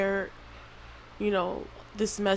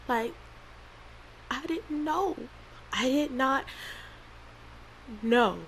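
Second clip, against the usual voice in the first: tearful, higher voice with halting pauses; crying; 3 semitones higher, 3 dB quieter than usual. Real, not acted. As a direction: struggle through tears to get it out. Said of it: "I wasn't gonna cry through this".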